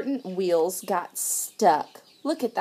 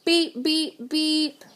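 high, short horn toots; pitched-up toy horn beeps; little truck's beeps; 6 semitones higher, slower than usual. A narrator's reading. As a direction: toot three times like a little truck. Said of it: "the little blue truck said".

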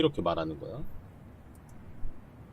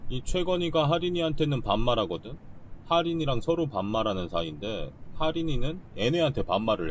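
excitedly explaining the relationship puzzle; 5 semitones higher than usual. Real, not acted. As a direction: pitch up, sure you solved it.

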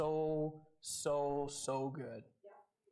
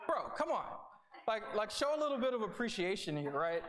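higher mock pleading dad; exasperated dad; 4 semitones higher than usual. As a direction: lightly plead for thanks. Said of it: "I'm like".

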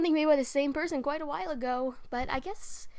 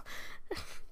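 crazy laughter; 10 dB quieter than usual. Acted. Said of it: "Our crazy laughter".

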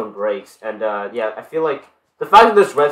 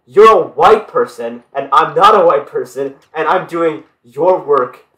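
mock sarcastic rant; 3 semitones higher, 5 dB louder than usual. Mocking ironic rant, laughing.

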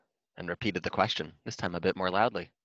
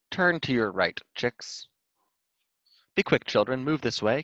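mother quail calling; 5 semitones higher, 4 dB louder than usual. Acted.

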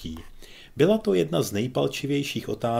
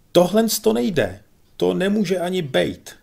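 trembling voice; 9 semitones higher, 8 dB louder than usual. A narrator's reading. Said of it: "jehož hlas se chvěl a drnkal".

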